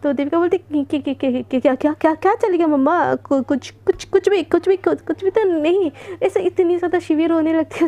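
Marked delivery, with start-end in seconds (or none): 1.0-5.9 trembling, repeating each word before it comes out; nervous stammer. Acted. Devika asked by mom what's going on, stammering nervously. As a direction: stumble like a caught child. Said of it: "उसके हाथ पैर काँपने लगती थी".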